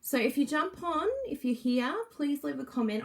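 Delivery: normal talking voice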